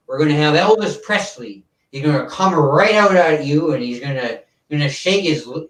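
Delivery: lightly voiced variety-show host announcing acts; a hint of an old-time TV host hyping the lineup; mild showman host voice, selling the show; Ed Sullivan impression. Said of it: "that's a bit of my, uh, Ed Sullivan impersonation".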